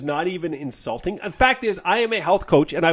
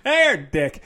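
a brighter, louder "Hey, dick." with a cheeky jab; mock-friendly insult; 3 dB louder than usual. To a troll commenter, a cheeky mock-greeting. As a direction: greet him cheerfully, then land the insult. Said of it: "Yeah, I'd be like".

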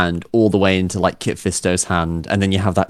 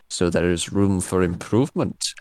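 a hint of Dooku; 5 dB quieter than usual. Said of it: "he just goes".

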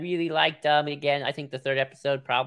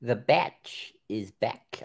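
New Zealand accent; much slower than usual. Shown as a demonstration. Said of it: "I tried to do a New Zealand accent".

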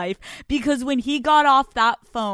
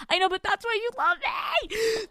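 high, sweet cutesy voice; cutesy reply; 11 semitones higher than usual. Retold or imitated. Flirting back at her partner in a high cutesy voice. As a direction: tease him with a sing-song innocence.

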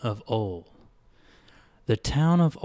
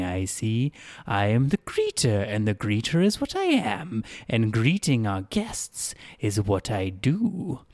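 a lightly voiced, overly polite town greeter; odd cheerful greeter. Greeter welcoming a dazed girl, lightly voiced and polite. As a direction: play the greeter, hospitable and a bit strange.

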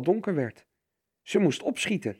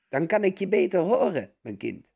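gespeelde omastem; 5 semitones higher, 3 dB louder than usual. A narrator's reading. Wolf als oma antwoordt.

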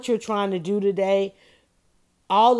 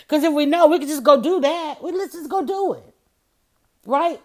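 laughing; 7 semitones higher, 4 dB louder than usual. Real, not acted. Excited joke about going back.

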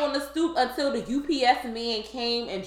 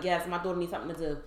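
godsister's mom; 5 semitones lower, 8 dB quieter, much faster than usual. Retold or imitated. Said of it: "her mom was like".

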